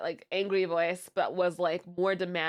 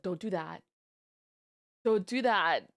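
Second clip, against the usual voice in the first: protective aunt; 3 semitones lower than usual. Retold or imitated. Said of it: "protective aunt voice".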